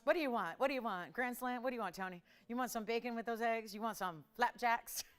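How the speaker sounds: short order cook. Pretend. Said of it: "I sound like a short order cook".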